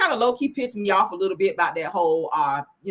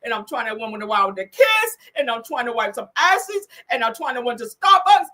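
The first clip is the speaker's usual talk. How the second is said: whiny, put-on complaining voice, a touch higher; hammed-up tired influencer moaning about her busy day; mocking Tisha; 5 semitones higher, 3 dB louder than usual.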